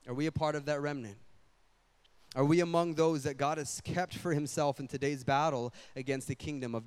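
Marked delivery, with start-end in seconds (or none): 0.1-1.2 Are we a part of that remnant, said fast and plainly; quick repeat. Shown as a demonstration. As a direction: fire the question again quickly. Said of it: "is this".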